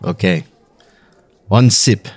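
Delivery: attempted South African accent. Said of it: "he's gonna do it in his best South African accent".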